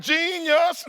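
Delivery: mocking, high "Genius"; sarcastic praise. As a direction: say it dripping with sarcasm. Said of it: "I was like".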